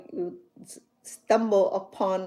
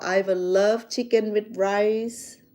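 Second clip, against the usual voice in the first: slow careful English; slower than usual. Shown as a demonstration. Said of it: "you would say".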